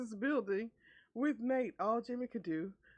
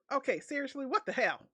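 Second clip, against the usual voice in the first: exasperated shout; 6 semitones higher, 6 dB louder than usual. Retold or imitated. Jimmy reacting to smell.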